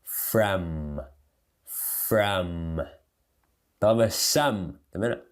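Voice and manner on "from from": "From" drawn out onto a hummed M; closed-lip M ending. Shown as a demonstration. Teacher drilling the word, "From" closing on a held M. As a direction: end "From" with lips shut on M. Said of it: "Termina fechando a boca".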